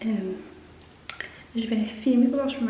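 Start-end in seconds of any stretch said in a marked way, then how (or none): 0.1-0.3 hushed whisper, barely voiced; quiet at night. Real, not acted. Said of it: "je parle pas fort parce que mon fils dort".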